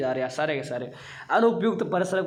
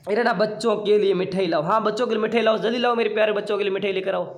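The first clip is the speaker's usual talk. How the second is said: higher-pitched playful call for sweets; acted eager request; 4 semitones higher, 4 dB louder than usual. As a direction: act out urging someone to fetch a treat. Acting out an example request for sweets.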